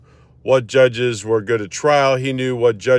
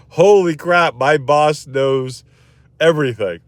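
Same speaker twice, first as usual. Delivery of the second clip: retold stunned realisation, slowing on "knows"; amazed; 3 semitones higher than usual. New lawyer recalling awe at his boss, amazed.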